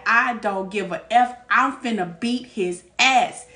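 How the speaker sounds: mean every word of it; retold angry threat. Telling her man she'll fight the other guy, angry. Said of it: "That's how angry I was".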